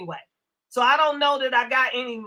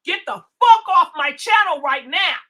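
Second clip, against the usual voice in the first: angry order; 3 semitones higher, 6 dB louder than usual. Real, not acted. Kicking a troll off channel.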